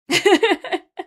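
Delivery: high, loud burst of laughter; laughing. Real, not acted. Streamer laughing about how big Norway is, loud laugh.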